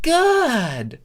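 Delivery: squeaky "good"; high satisfied good; high curt approval. A narrator's reading. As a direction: snap it out high. Changeling approves.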